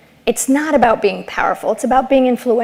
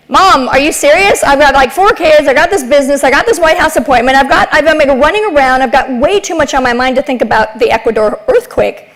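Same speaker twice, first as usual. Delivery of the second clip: exasperated daughter; 2 semitones higher than usual. Retold or imitated. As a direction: rattle off the excuses, flustered. Daughter protesting overload to mom.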